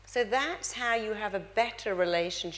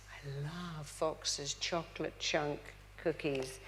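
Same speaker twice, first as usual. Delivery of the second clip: slow, softer, dreamy craving; mock swooning; 6 semitones lower, 9 dB quieter, slower than usual. Bride mocking her own swooning over cookies, dreamy. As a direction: coo over the cookies like a crush. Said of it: "I go down the aisle and I go".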